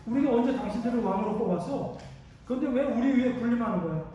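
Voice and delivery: confrontational challenge. Acted. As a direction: demand answers like an aggrieved accuser, voice rising. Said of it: "제가 이렇게 따지는 거야".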